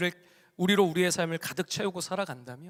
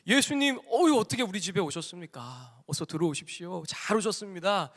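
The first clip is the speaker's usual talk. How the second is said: overjoyed welcome. Retold or imitated. Rich man welcoming Jesus at his door, overjoyed. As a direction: imitate a host moved by an honoured guest. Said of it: "이 부자가 감격했겠어요".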